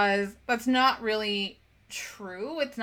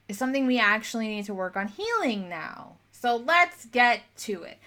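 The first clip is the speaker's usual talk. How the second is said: voice of the trigger; 2 semitones higher than usual. Pretend. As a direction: play your trigger cheerfully knocking to be let in. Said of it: "That trigger is there to say".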